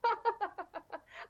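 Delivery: bright burst of high laughter; amused laughter. Real, not acted. Guest tickled by host's rubbish geography, real high laughter.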